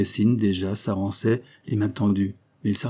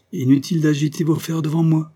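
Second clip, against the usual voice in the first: loud, higher snarl; angry growl; 8 semitones higher, 6 dB louder than usual. A narrator's reading. Scrope rebuking Knightley for showing his chains, angry growl. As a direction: snap it at him in anger. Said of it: "gronda-t-il".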